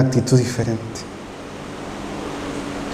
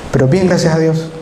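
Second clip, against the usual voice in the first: "Pero bien, gracias a Dios" repeated as a habit phrase; the stock Salvadoran answer; rote phrase; 2 semitones higher than usual. Shown as a demonstration. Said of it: "no me van a dejar mentir".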